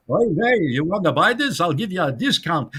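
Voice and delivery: hammed-up Yiddish-Jewish sales pitch; Yiddish-Jewish accent. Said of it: "That's the way he talked as a kid".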